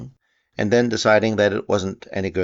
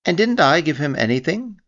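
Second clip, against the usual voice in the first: sadly; 9 semitones higher, 4 dB louder than usual. A narrator's reading. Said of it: "asked Christopher Robin sadly".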